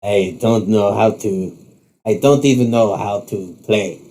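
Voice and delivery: put-on slow, faint French accent. Bishop admits he cannot bowl, faint French accent. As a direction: hesitate in a light French accent. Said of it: "in his faint French accent".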